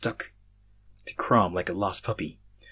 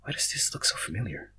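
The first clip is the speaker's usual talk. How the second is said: soft puzzled muttering to himself; 7 dB quieter than usual. Acted. Drago puzzling over the rock, muttering softly. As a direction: mutter it under your breath. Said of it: "He then heard Drago muttering".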